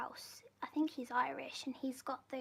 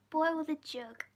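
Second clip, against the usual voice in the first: gleeful; 3 semitones higher, 6 dB louder, slower than usual. Shown as a demonstration. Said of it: "We're gonna say boil the jug".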